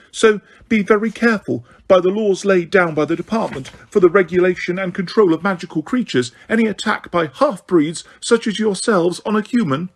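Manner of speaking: high, prim warning voice; a shrill official lecturing, barely holding it; lightly voiced Umbridge, frightened but pompous. Umbridge threatening the centaurs.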